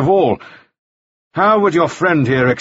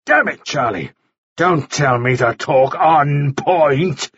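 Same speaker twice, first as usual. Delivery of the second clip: higher-pitched, heated accusation; angry rant; 5 semitones higher than usual. A narrator's reading. Mannering rages at Charlie Frost, angry rant. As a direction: build the case in exasperation.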